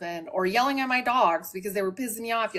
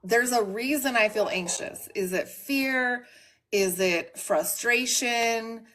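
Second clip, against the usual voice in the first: slow self-questioning; slower than usual. Retold or imitated. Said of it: "stop and think".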